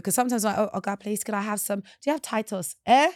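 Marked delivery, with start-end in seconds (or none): 0.6-2.7 put-on soft, polite British-leaning accent; quiet, proper accent of a returnee at market; unadapted foreign-sounding accent. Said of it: "adapt my accent a little bit". 2.9-3.1 imitating a baffled Nigerian trader's "eh?"; confused questioning grunt; puzzled market seller. Market seller not understanding accent.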